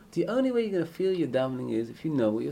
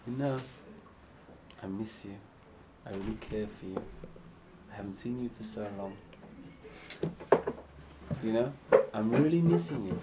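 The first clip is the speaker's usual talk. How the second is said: tender; 4 semitones lower, 4 dB quieter than usual. Shown as a demonstration. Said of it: "How do you speak? Say".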